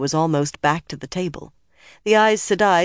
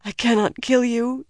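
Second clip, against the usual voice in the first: high, thin anguished voice; small high voice of despair; whispered refusal; 8 semitones higher than usual. A narrator's reading. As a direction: refuse in pained, high tones. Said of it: "she whispered".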